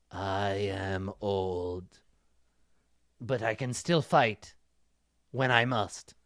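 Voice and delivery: put-on low, soft, slow old master voice. Old master answering the threat, low and frail. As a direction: speak like a frail old sage, quietly. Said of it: "Master Quan said".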